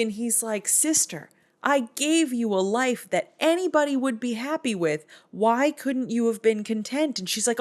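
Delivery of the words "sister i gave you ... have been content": higher put-on voice, disappointed; a weary brother's rebuke, pitched high; high scolding brother. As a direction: brother chiding his sister in a high voice.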